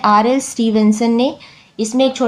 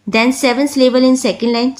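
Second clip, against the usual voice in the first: slow reading; much slower than usual. Shown as a demonstration. Reads text slowly.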